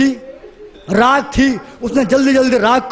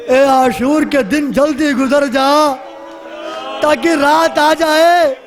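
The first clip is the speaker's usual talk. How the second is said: yearning. Acted. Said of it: "تڑپ تڑپ کے کہتی ہے". (تڑپ بھری التجا)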